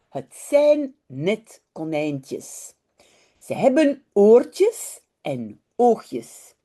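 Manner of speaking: unhurried, expressive read-aloud in Dutch; children's story narration. A narrator's reading. Teacher reading a Dutch story to online learners, storytelling. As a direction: read it slowly and clearly for young learners.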